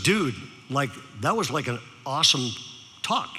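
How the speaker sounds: mock Valley-kid talk, pitched low; lightly imitated laid-back Southern California dude; Valley teenager. Sophomore praises the speaker's talk, low Valley-dude imitation. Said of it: "these are Southern California Valley kids".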